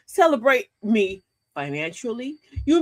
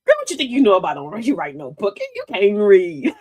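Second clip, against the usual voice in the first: sarcastic friend; 5 semitones lower, 4 dB louder than usual. Retold or imitated. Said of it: "they get sarcastic".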